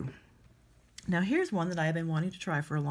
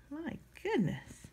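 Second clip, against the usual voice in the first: higher, slower, soft strained sigh; straining at a stuck lid; 8 semitones higher, 6 dB quieter, slower than usual. Real, not acted. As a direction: stretch it out mid-twist, breath held. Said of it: "I'm still trying to get the lid off".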